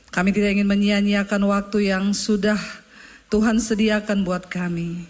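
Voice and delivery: pastor's heartfelt spoken prayer; fervent prayer. Acted. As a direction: pray it from the heart, leading the church. Pastor prays over the congregation.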